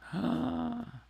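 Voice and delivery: high, drawn-in gasp; surprised gasp. Retold or imitated. Narrator reacting to a sequel request, surprised high gasp. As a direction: gasp at the news. Reacts to getting a part two.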